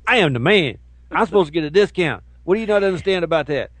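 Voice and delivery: hammed-up entitled shopper; mock entitled customer. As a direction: demand it like an entitled man.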